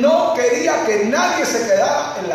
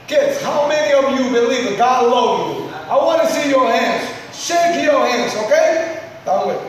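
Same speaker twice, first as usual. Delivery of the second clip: rallying call; 5 semitones higher than usual. Real, not acted. Preacher calling out to the children about God's love.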